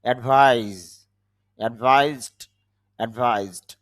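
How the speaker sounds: অ্যাডভাইস and অ্যাডভাইসড with z for the s; z sound. Shown as a demonstration. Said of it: "জ sound হবে". (অ্যাডভাইস, অ্যাডভাইসড-এ স-এর জায়গায় জ (z))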